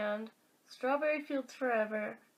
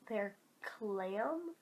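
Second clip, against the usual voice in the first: puzzled question; 3 semitones lower, 6 dB quieter than usual. Shown as a demonstration. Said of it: "is that a phrase that people say".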